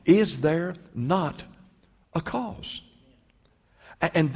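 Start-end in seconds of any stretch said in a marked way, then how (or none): 0.0-2.8 slow, then a cause swung much higher in a rising appeal; climbing plea. Acted. David pleading with Eliab, rising high and slow. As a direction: let the question climb and hang. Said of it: "He said".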